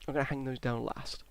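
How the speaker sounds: mid-yawn, tired. Real, not acted. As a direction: talk through a yawn. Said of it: "I'm yawning so much".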